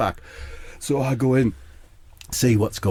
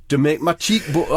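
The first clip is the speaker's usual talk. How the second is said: put-on slipping into a light Scottish accent; lightly Scottish lilt; 3 semitones higher than usual. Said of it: "I've gone Scottish".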